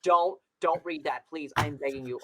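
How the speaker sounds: loud, frantic begging, fading into whimpers; panicked pleading. Real, not acted. Friend begs Connor not to read old playbills, panicked pleading. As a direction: beg him to stop, half laughing in dread.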